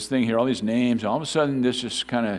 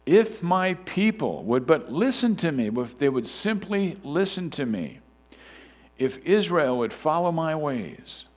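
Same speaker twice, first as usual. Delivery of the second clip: solemn reading of a psalm; measured pulpit reading; scripture reading; 3 semitones higher than usual. Acted. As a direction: read it as God pleading with his people. Reads Psalm 81 aloud.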